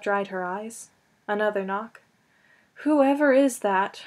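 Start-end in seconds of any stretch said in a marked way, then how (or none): 2.8-4.0 slow, put-on yawn of a question; mock drowsy indifference; feigned boredom. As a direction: pretend you couldn't care less. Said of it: "Buttercup yawned finally".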